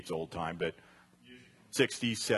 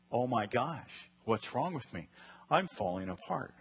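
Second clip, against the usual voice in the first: negative panicked take. Shown as a demonstration. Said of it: "The negative is".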